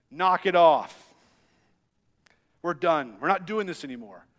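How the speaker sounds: put-on stern dad telling the kids off, firm at first; a hint of a stern dad shutting it down. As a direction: lay down the law to squabbling boys. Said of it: "this dad voice that comes out of me".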